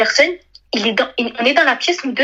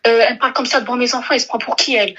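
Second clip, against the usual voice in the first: a higher-pitched, retold shout at the mother; stepfather's retold yell, higher and fast by its end; mock yell; 3 semitones higher, faster than usual. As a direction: replay the stepfather yelling for her, half in earnest. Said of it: "il appelle ma mère en criant".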